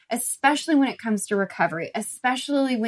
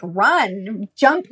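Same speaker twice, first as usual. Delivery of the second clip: urgent gut voice; 5 dB louder than usual. Acted. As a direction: act out instinct urging escape. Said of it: "my gut voice is like".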